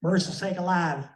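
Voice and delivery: a lightly hammed-up Southern drawl calling out. Teasing Janice with the radio in a mock Southern drawl. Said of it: "I had that Southern drawl kick in".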